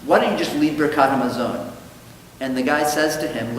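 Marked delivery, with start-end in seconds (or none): 0.0-1.7 frustrated, disgusted rabbi. Retold or imitated. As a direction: act out a rabbi losing patience, lightly. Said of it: "he's so frustrated and disgusted".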